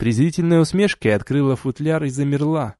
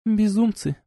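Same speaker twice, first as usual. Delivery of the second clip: higher, weary duchess sigh-word; exasperated duchess; 10 semitones higher than usual. A narrator's reading. Duchess shaking her head at the lovers, exasperated. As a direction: dismiss them as fools.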